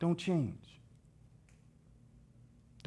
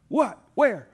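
high, loud, bewildered questions; startled confusion; 9 semitones higher, 10 dB louder than usual. Acted. Guys who got caught hearing the alarm, loudly bewildered. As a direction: blurt it out, caught off guard.

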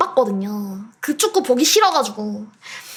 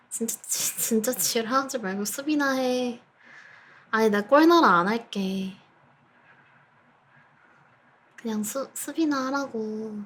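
softer anxious mumble; nervous muttering; 3 semitones lower, 8 dB quieter than usual. Real, not acted. Nervous, begs team quietly. (초조하게 중얼거림)

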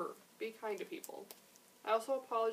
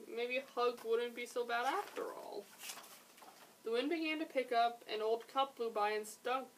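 gently animated picture-book reading; story narration. A narrator's reading. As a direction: read it aloud to young listeners. Reads a picture book aloud.

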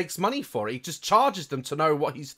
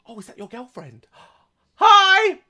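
sweet mum voice; 8 semitones higher, 4 dB louder than usual. Pretend. Mum sweetly greets girlfriend.

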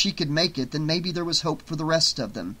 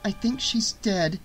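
strained; 6 semitones higher than usual. A narrator's reading. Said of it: "Jess managed".

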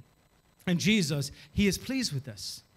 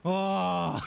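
relieved sigh. Acted. Parent's heart when child admits fault.

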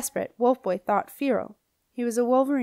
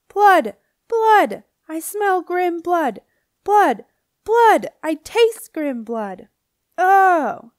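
screeching witch chant, very high and very loud, slow on the long lines; howling witch; 9 semitones higher, 11 dB louder, much slower than usual. A narrator's reading. Dorinda howling through the kitchen, a raging witch screech. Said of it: "a howl of rage came from the kitchen".

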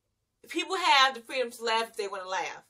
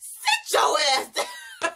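slow, loud mock shout; telling her off; 5 semitones higher, 4 dB louder, much slower than usual. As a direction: drag it out like a mock yell, half-laughing. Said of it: "I was like".

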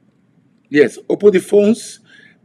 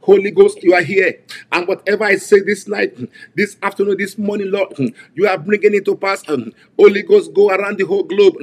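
fervent invocation; 2 semitones higher than usual. Acted. Preacher calling the Holy Ghost over congregation, fervent. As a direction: summon the Spirit.

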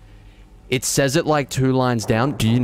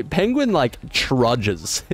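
indignant; much slower than usual. Real, not acted.

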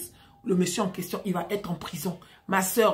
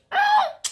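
very high, drawn-out squeal; mock high squeal of disbelief; shocked cry; 7 dB louder than usual. Sister doubts he is white, high squealed reaction.

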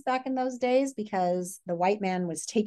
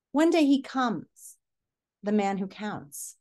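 slow, dramatic storytelling voice; story read-aloud; slower than usual. A narrator's reading. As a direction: read it like a gripping opening. Teacher reads story aloud to class.

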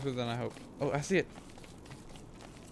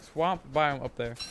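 slow careful retry; 5 dB louder, slower than usual. Real, not acted. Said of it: "Swa-, I can't talk".

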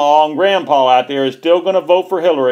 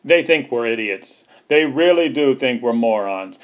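ordinary talk, nothing marked

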